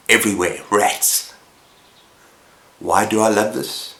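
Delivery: measured, suspenseful telling with long pauses; dramatic story narration. Acted. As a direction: narrate a dark tale, landing each phrase with weight. Dramatic scripted story summary.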